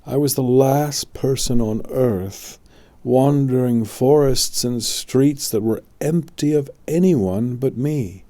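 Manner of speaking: put-on a troubled boy telling his dream; lightly voiced anxious boy; young Arthur.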